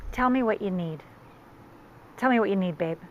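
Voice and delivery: gently coax, leaving room between phrases; calm, caring partner; tender. Shown as a demonstration. Coaches men to comfort after crying.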